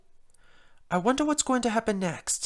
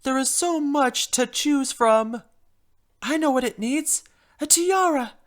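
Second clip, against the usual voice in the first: drama queen; 5 semitones higher, 4 dB louder than usual. Acted. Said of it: "Being the drama queen as I am".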